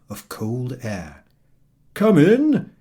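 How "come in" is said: loud, high, cheerful call; cheery shout. A narrator's reading. Papa Panov calling the road sweeper in, cheery shout. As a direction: call him in across the street. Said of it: "he shouted across the street cheerily".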